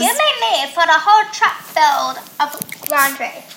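yelling across the room. Real, not acted. Loud banter across room.

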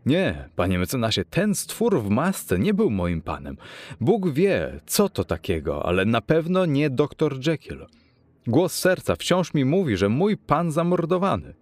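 high-pitched, impassioned protest; crying out. A narrator's reading. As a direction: exclaim in anguish, insisting at every phrase. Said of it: "ale Poole krzyknął". (wzburzony okrzyk, wysokim głosem)

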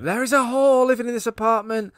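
high, loud mock Queens accent; Lorraine Bracco. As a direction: imitate a Queens woman calling out an accusation. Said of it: "I was thinking of Lorraine Bracco from Goodfellas".

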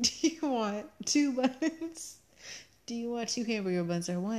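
drawing out the silly question with a laugh; mock misheard cashier. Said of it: "in my head, he was saying".

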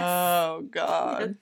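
slow, dragged-out groan; weary groan. Real, not acted. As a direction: groan with dread. Dreading airport security.

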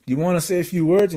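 high-pitched imitation of an excited MC; excited host. Museum host spotting a famous guest, excited imitation. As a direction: announce a surprise guest from the mic.

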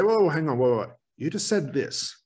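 quick, polite cut-in at normal pace; polite interruption. Shown as a demonstration. Therapist cutting into a client's rambling, briskly polite. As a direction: break in briskly but kindly. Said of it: "So I politely interrupt".

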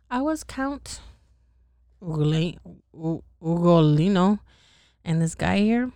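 lightly acted count introducing himself; storytelling with a touch of grievance; aggrieved sinner. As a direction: read out a sinner's account with mild grievance.

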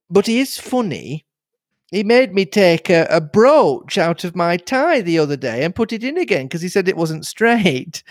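put-on a chatty, bubbly young nurse; young girl Cynthia.

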